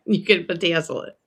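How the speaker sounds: a light hint of her aunt's nasal Midwestern way of saying bedazzle. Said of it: "I sound like my aunt, bedazzle".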